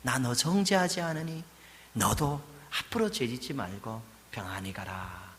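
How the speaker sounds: soft and tender, sending her off; soft reassuring pardon; gentle. Acted. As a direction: comfort her quietly. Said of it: "부드럽게 보호해 주시는 거예요".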